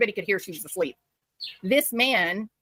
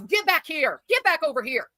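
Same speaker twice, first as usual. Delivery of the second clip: retold yell; 6 semitones higher than usual. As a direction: imitate his yell at restrained volume. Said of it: "and then he yells".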